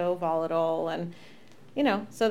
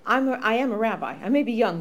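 firm stern; 2 semitones higher, 5 dB louder than usual. Retold or imitated. Rabbi firmly confronting congregant.

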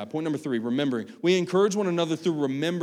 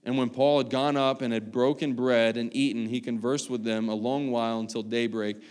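scripture reading. Acted. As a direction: read the passage with weight. Reads scripture aloud.

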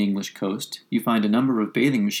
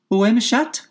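higher, louder schoolgirl French; high girl voice; 12 semitones higher, 4 dB louder than usual. A narrator's reading. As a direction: recite a lesson-book sentence, higher. Alice tries French on mouse.

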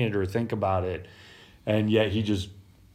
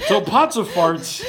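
laughing. Real, not acted. Host cracking up over the botched name, laughing. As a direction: say it through helpless giggles.

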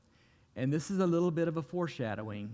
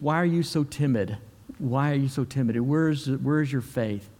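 louder, pressing challenge; firm rebuke; 6 dB louder than usual. Retold or imitated. Jesus challenging his disciples, louder firm rebuke. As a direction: drive the question home.

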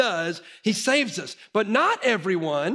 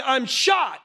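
mock shouted cry of alarm; retold shout; 5 semitones higher than usual. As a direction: call it out like a son who heard a gunshot. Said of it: "Our son thought she was saying".

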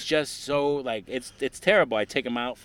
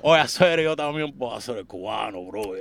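loud Caribbean Spanish protest; loud Caribbean Spanish indignation; Dominican pushback; 3 semitones higher, 10 dB louder than usual. Retold or imitated. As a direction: deny it like an offended islander. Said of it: "the stereotype of each".

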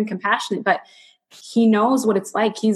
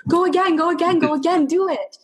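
higher, eager coaxing; excited urging; 9 semitones higher than usual. Retold or imitated. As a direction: cheer her on to go again. Husband urging her on.

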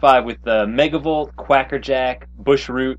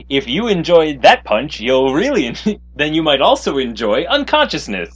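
louder pitchy sales voice; infomercial salesman; 3 semitones higher, 5 dB louder than usual. Retold or imitated. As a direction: sell it like a TV ad host. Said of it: "he talks like an infomercial salesman".

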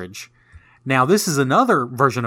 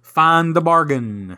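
game show host; 3 semitones higher, much slower than usual. Acted. Game host announcing round.

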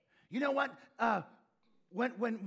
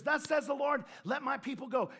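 Moses proclaiming; 3 semitones higher than usual. Retold or imitated. Moses declaring to Pharaoh, raised proclaiming voice. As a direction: announce it to Pharaoh. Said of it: "he says".

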